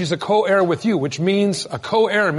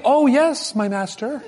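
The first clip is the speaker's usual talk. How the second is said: mock submissive wife; 6 semitones higher, slower than usual.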